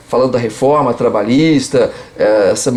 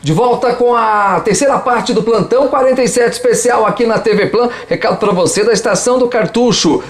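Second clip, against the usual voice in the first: ad read; 3 semitones higher than usual. Acted. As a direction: pitch the store to viewers. Host returns, reads sponsor ad.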